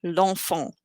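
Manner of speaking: L'ENFANT joined, no vowel after the L; elided, E cut off. Shown as a demonstration. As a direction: slide the L right into "enfant". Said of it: "cut off the E".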